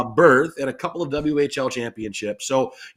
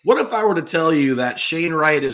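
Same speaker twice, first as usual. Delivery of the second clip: raised, louder showman's pitch opening; sales pitch; 2 semitones higher, 6 dB louder than usual. Acted. Host pitching his hockey take like a salesman. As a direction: hook them like a game show host. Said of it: "Excellent sales pitch".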